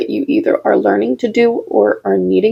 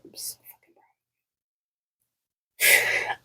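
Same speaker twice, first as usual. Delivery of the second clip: choked up; 11 dB quieter than usual. Real, not acted. Emotional message to viewers.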